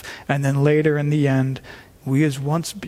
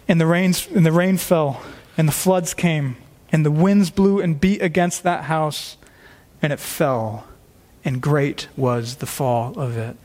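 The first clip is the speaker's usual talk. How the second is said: solemn scripture reading. Acted. Reads scripture aloud.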